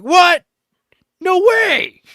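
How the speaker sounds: high, loud thrilled shout; excited kid. Retold or imitated. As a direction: squeal like a thrilled ten-year-old. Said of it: "as, like, a ten-year-old".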